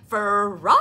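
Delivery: loud long call; mother calling Froggy from indoors. A narrator's reading. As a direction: call him from the house. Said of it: "called his mother".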